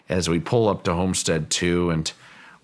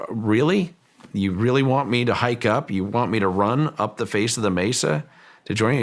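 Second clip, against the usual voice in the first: retold yell; 4 semitones higher than usual. Owner answering the physicist up on the mesa, mild retold yell. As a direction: mildly mimic yelling back up in disbelief. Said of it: "And I look up and I yell".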